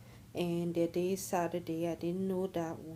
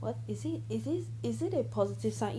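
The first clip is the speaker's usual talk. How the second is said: real stumbling, restarted question, raised pitch; higher-pitched, hesitant false starts; stuttering; 4 semitones higher, faster than usual. Real, not acted. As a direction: trip over the question, restarting as you go. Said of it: "I'm stuttering too much".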